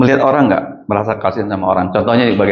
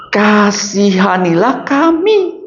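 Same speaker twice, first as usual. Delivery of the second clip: mild plea; 7 semitones higher, slower than usual. Retold or imitated. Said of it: "Dia langsung berteriak".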